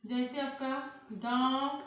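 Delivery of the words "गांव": "गांव" louder, with the mouth wide open; open-mouthed nasal vowel. Shown as a demonstration. Teacher demonstrates chandrabindu for students, wide-mouthed "गांव". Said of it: "मुख को बड़ा करना पड़ रहा है ना".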